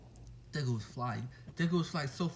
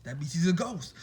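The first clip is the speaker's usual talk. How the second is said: dramatic reveal; 2 semitones higher, 4 dB louder than usual. Pretend. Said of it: "watching too many horror movies".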